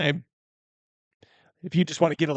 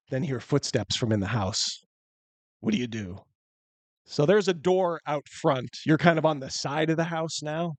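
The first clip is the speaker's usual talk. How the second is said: normal talking voice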